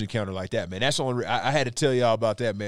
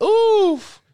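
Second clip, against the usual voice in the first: startled oof; 7 dB louder than usual. Retold or imitated. Startled by moose in the dark.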